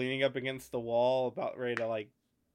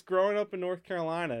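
higher, slipping into North Carolina speech; North Carolina accent; 4 semitones higher than usual. Real, not acted. Explaining where it comes from, North Carolina accent. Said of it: "notice how I said North Carolina like that".

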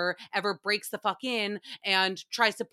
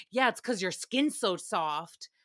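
creepy neighbor imitation; 3 semitones lower than usual. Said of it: "And he goes".

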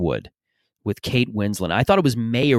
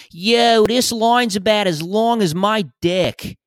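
mock Philly yell, pitched way up; Philly guy shouting; 10 semitones higher, slower than usual. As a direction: holler it like a brash Philadelphia fan. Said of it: "that's the standard Philly greeting".

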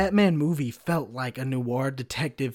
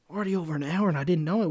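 surprised; 4 semitones higher, faster than usual. Real, not acted. Realises the time is up.

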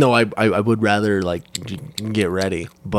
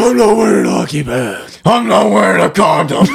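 Christian Bale voice; 5 semitones higher than usual. Acted. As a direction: parody a movie hero's growl. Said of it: "That's how he has sex".

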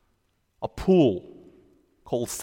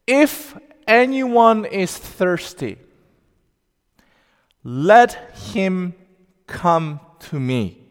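cried out; 3 semitones higher, slower than usual. Retold or imitated. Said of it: "He cried out".

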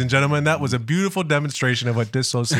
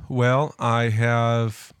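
blocked-up nose; stuffy nose; slower than usual. Real, not acted. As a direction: speak through stuffed sinuses. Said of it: "the sinuses are really bad".

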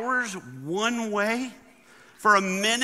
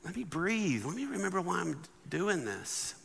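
softer, slowing down to breathe; calming self; 8 dB quieter than usual. Retold or imitated. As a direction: ease off and settle yourself. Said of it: "Instead of like".

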